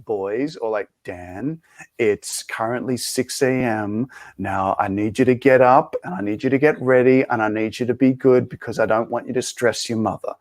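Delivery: lightly voiced father rousing the boys; a hint of stern dad. Dad waking the boys before school, lightly voiced stern order. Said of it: "he goes".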